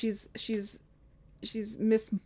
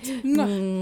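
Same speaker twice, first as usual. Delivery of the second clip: chef's kiss; 6 dB quieter than usual. Shown as a demonstration. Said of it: "Yeah, that".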